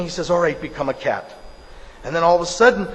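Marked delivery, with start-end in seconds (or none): 0.3-1.3 lightly voiced guru, lower; a hint of a guru calmly granting it; unruffled guru. Guru answers the frightened mouse, low and matter-of-fact.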